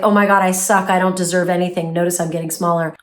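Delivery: quick, shrinking self-pity. Retold or imitated. The inner critic after rejection, a small self-pitying voice. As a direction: let the voice fade as you shrink. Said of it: "the voice instead is like".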